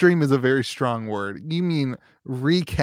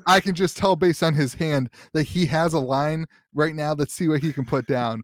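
esports caster. Pretend. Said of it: "shoutcast your own game".

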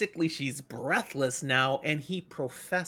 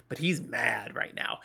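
geflüstert, wie ein Geheimnis; a hushed aside about his anger; whisper; 5 semitones lower, 5 dB quieter than usual. Acted. Calm man, secretly mad.

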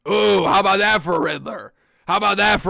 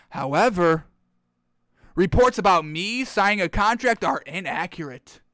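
smug tweet reading; 2 semitones lower than usual. Retold or imitated. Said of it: "this is exactly how he meant it".

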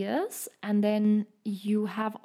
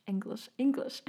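English said with a German accent; 2 semitones higher than usual. Shown as a demonstration. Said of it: "Sorry, that was my German accent".

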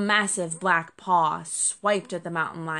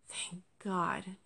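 softer, sighed out in relief; relieved sigh; 6 dB quieter than usual. A narrator's reading. Injured fox thanking rescuers, sighing softly. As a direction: let the breath go on it. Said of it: "Jasper sighed".

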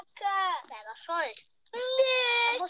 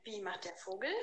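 put-on reading to a toddler; 6 semitones lower, 13 dB quieter, faster than usual. Asking a toddler animal sounds.

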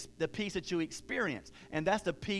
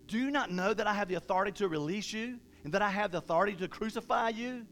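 furious Pilate; 4 semitones higher, faster than usual. Retold or imitated. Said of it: "Pilate was furious and said".

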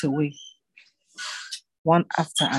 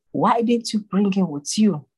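demanding; 6 semitones higher, 3 dB louder than usual. A narrator's reading. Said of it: "who demanded".

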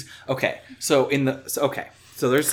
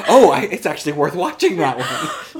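laughing imitation; 4 semitones higher, 6 dB louder than usual. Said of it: "You're like".

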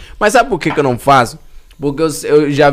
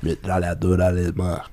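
low rapper voice reciting lyrics; impression of a Brazilian rapper; 8 semitones lower, 8 dB quieter than usual. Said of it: "o rapper na área".

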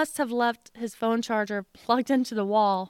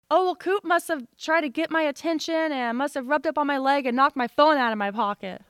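higher-pitched imitation of a husband's excuse; joking excuse; 4 semitones higher than usual. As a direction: imitate him playfully pinning it on the dog. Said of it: "So Tom was joking at this point".

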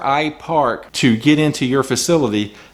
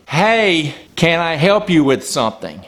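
yelling from the back; 3 semitones higher than usual. Retold or imitated. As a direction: call out to a customer far away, half-hearted yell. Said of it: "they greet me by yelling at me".

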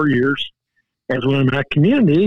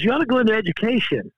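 buddy's advice; 7 semitones higher, faster than usual. Retold or imitated. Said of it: "and he goes".

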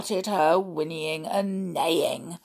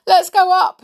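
put-on high, loud, panicky child voice; frightened boy; 12 semitones higher, 10 dB louder than usual. A narrator's reading. Edgar clutches his mother's arm, frightened. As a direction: plead urgently in a scared high voice. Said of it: "Edgar clutched his mother's arm".

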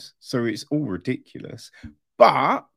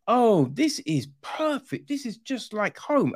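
mock gushing; 7 semitones higher than usual. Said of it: "she's just like".

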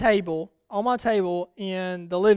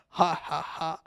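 low, soft, spaced-out chuckle; imitated preacher laugh; 4 semitones lower, 8 dB quieter, slower than usual. Country preacher enjoys his own story, imitated low laugh. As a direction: mimic an old preacher's measured ha-ha. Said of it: "preacher telling this story kinda laughs back".

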